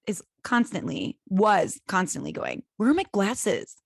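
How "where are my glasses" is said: accusing demand. Retold or imitated. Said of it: "You make everyone around you feel stupid".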